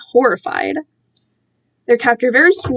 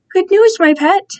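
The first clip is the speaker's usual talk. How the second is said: higher, louder gleeful villain greeting; captor's voice; 7 semitones higher, 5 dB louder than usual. A narrator's reading. Captor greets his prisoner, gleefully menacing. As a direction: purr it like a pleased captor. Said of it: "he said".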